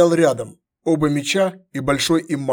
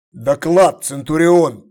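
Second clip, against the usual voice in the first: sharp command; 6 dB louder, slower than usual. Acted. Emperor commands the centurion.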